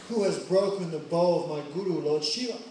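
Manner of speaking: angry Parshuram. Acted. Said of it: "Parshuram became very angry".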